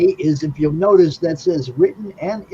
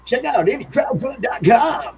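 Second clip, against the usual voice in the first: mock announcer shout; 7 semitones higher than usual. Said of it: "Joe said".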